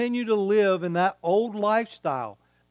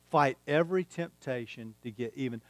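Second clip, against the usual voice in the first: softer, letting "Fight every temptation to get even" sink in; quiet repeat; 4 semitones lower, 5 dB quieter than usual. Shown as a demonstration. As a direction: say it again quietly for it to land.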